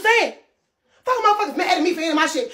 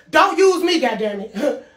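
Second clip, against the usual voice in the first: slow angry shout; 5 semitones lower, slower than usual. Real, not acted. Angry rant at other streamers.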